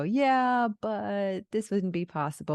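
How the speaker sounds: lightly voiced voice of limitation; doubting inner voice. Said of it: "parts of you that wanna come in and go".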